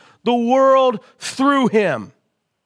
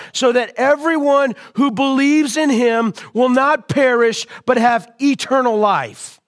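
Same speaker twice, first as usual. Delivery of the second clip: full-force preaching; 3 semitones higher than usual. Acted. Pastor booming the scripture to his congregation, full-force preaching. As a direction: proclaim it to the whole church.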